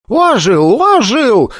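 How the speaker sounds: high excited shouts; shouting. Acted. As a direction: cry out in alarm. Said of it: "с криками".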